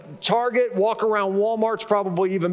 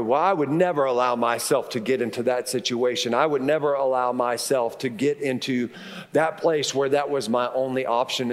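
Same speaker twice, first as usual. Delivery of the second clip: low, self-righteous judge of others; a self-satisfied critic judging a widow; smug critic; 7 semitones lower than usual. Retold or imitated. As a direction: sniff it out like a smug onlooker.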